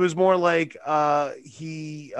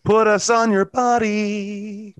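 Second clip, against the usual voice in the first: 1 hammed-up sales pitch; 4 semitones higher, 3 dB louder, slower than usual. Merch promo, hammed.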